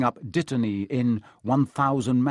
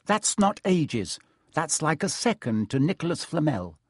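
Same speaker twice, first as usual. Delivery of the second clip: snapping; 5 semitones higher than usual. Acted. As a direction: lecture him sharply. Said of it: "Hermione snapped".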